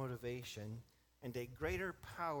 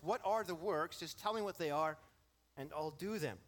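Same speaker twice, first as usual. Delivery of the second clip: louder, impatient voicing of the rule-keeper who wants a to-do list; mock-eager demand, a little louder; eager performer's demand; 4 semitones higher, 4 dB louder than usual. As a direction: play the listener begging for a task list. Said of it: "That's exactly where our minds go".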